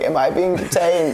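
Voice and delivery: a hint of a frail old lady asking. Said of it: "in an old lady voice".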